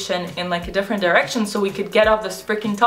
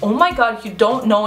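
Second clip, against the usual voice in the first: condescending disbelief; 2 semitones higher, 4 dB louder than usual. Retold or imitated. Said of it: "he was just so condescending".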